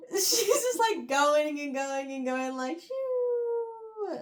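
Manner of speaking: high, drawn-out "shoo" as she keeps going; falling whoosh. Retold or imitated. Reader recapping her endless plunge, comic falling whoosh. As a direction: imitate a long fall with a sliding high shoo.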